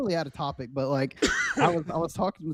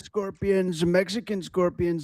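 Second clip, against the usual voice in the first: Trump impression. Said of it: "I'm not gonna hit play until you do something".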